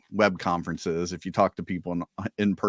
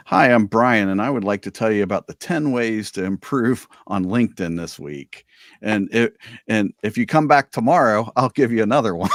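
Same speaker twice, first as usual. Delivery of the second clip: mock sales pitch; 3 semitones higher, 6 dB louder than usual. Parody of a LinkedIn pitch.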